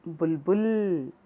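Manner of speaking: बुलबुल said slowly, बुल and बुल drawn apart; slow syllable reading. Shown as a demonstration. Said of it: "बुलबुल छोटा स्वर". (बुलबुल धीरे-धीरे अक्षर अलग करके)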